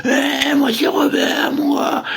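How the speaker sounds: high shouted boast; mock proud shout. Robert shouts his own name to the crowd, high. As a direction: yell your name proudly.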